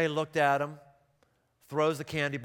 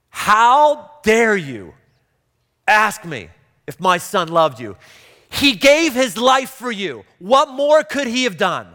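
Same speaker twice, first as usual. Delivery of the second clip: louder, slow, outraged retold mother; furious mother; 6 semitones higher, 11 dB louder, slower than usual. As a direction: let a hurt mother's fury spill out. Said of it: "His mother all of a sudden got very angry".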